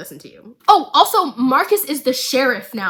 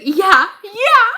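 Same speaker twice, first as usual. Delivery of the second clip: much higher and louder, in a put-on voice; giddy cheer; 9 semitones higher, 9 dB louder than usual. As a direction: cheer back without a care. Jinx answers Silco's scolding.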